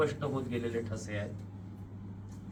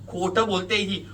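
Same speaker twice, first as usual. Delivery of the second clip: raised-voice objection, first burst; desperate interjection; 5 semitones higher, 6 dB louder than usual. A narrator's reading. Accused man interrupts the woman, crying out. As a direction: break in to call her a liar. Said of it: "तुम्ही जीवाच्या आकांताने ओरडता".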